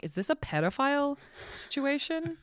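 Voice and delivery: high, far-off squeal of alarm; a high appalled squeal; alarmed disbelief. Retold or imitated. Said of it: "And I'm like".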